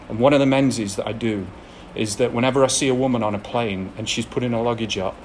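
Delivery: usual speaking voice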